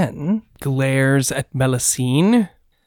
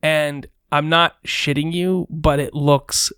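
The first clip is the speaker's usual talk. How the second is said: game master narration. A narrator's reading. Game master sets the scene.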